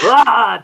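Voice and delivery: loud imitated battle cry; mock charging yell. Retold Scoopin's intense charge at pig.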